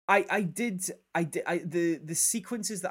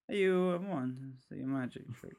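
Joker impression; 3 dB quieter than usual. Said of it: "Joker quotes".

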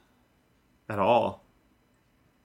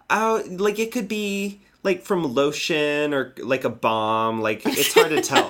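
high airy agent voice; 4 semitones higher than usual. Retold or imitated. Agent's vague answer, retold.

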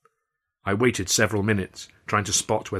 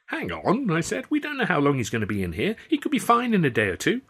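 high, rising pleading objection; anxious high appeal; urgent protest; 8 semitones higher than usual. A narrator's reading. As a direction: push back hard. Arguing to keep Wimmy.

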